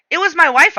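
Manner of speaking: "wife" given pointed emphasis; stress on wife. A narrator's reading. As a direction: lean on the last word, "wife". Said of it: "emphasis on the last word".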